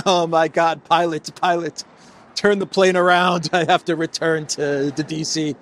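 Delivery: hammed-up alarm, begging the pilot to turn back; mock panic. Imagined panicked Stubb on plane.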